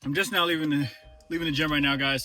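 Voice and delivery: winded, catching breath after the gym; breathless, just off the treadmill. Real, not acted. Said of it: "excuse me if I'm a little winded".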